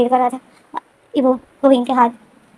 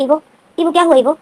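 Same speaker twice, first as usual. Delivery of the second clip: raised, worried call to a friend behind a closed door; calling through door; 4 semitones higher, 5 dB louder than usual. Retold or imitated. Wing knocks on Evo's door, calling out worried. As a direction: call his name louder and higher, anxious.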